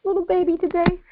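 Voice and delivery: emotional. Real, not acted. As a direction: let real emotion lift the voice high. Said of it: "So I'm kinda emotional".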